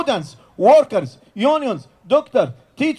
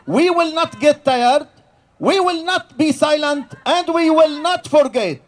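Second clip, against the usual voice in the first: defiant rally refrain; 4 semitones higher than usual. Real, not acted. Speaker rallying the crowd before her, defiant rising shout. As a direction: build each line toward the final cry.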